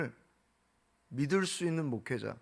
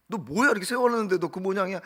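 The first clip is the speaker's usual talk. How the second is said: mock rebuke; 3 semitones higher than usual. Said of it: "이렇게 책망을 하시는 법이 없어요".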